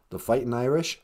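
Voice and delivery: puzzled low grandma query; low, doubtful rising question; low questioning Nana. Pretend. Nana asks, then speaker exclaims.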